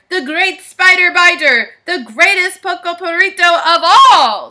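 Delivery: loud, grand hero's proclamation; hammed-up swashbuckler introducing himself; Scapito boasting. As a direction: announce each title bigger, building to the last. Hero boasts his titles in story.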